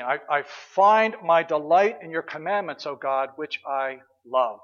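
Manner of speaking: slow, deliberate recital of Psalm one nineteen; slow scripture recital. Acted. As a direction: savour each word of the psalm. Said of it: "Psalm one nineteen".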